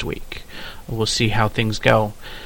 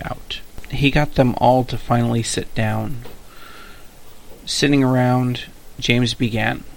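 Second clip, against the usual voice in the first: steady storyteller reading of his own draft; story narration. A narrator's reading. Author reading his story to listeners, in an even narration voice. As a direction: read the chapter out evenly.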